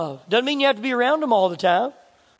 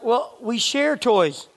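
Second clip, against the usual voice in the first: calm parent; much slower than usual. Retold or imitated. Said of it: "I'm trying to keep things calm".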